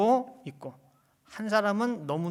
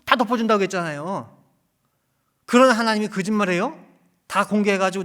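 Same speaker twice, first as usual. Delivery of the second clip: loud, raised preaching questions; forceful preaching; 5 semitones higher, 12 dB louder than usual. Real, not acted. Preacher challenging listeners about a forgiving God, forceful preaching. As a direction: press the congregation with raised questions.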